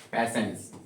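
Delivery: पैशंस said with a soft "sh" sound in the middle, like "pay-shuns"; model pronunciation. Shown as a demonstration. Teacher showing students how पैशंस sounds, with the "sh". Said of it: "श pronunciation".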